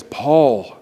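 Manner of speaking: slow, measured divine reminder with long pauses; grave, unhurried voice from heaven; voice of the Lord. Retold or imitated. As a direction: speak as God, slowly, sinking low and soft at the end. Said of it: "the Lord speaks very loudly, and he says".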